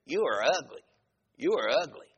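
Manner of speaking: mock parrot insult. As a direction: say it like a talking parrot. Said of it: "that parrot looked at her and said".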